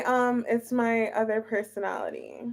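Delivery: soft unvoiced whisper. Real, not acted. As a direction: whisper it secretly. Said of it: "the deep voice".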